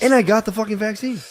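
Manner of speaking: high, loud exasperated add-on; mock outrage. Co-host chiming in as the angry passenger, mock outrage.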